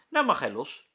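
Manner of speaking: loud cheerful call. A narrator's reading. Rolf calls out as he frees the fly, loud. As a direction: call it out to everyone. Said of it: "roept Rolf".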